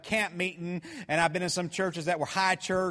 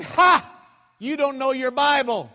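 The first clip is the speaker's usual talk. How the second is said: high, shouted scoffing taunt; mock drunk stranger; 7 semitones higher, 9 dB louder than usual. Stranger mocking preacher's Bible knowledge, loud scoffing. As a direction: scoff loudly like a street heckler, acted out. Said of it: "I got a drunk on my hand here".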